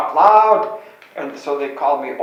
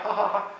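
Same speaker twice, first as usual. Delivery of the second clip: a light, higher mock "ha, ha, ha" of the boys laughing; imitating kids' laughter; 7 semitones higher, 5 dB quieter than usual. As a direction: tease it out like a class giggling at the new teacher. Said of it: "And they all laughed".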